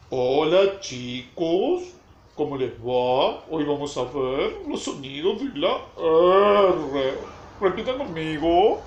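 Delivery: lightly imitating a slow teacher greeting; mock teacher. Supervisor showing how she imitates the teacher, drawn-out mimicry. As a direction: stretch the line ends like a teacher to little ones. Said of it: "¿Vos me estabas imitando?".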